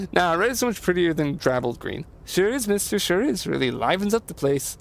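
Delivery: a hint of a chirpy handyman; lightly lilting, folksy and pleased; lightly voiced Leo. Voices Leo in game dialogue.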